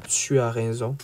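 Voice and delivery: low, voiceless aside; hushed, exhausted whisper. A narrator's reading. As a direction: whisper a weary agreement. Narrator voices a weary silent nod.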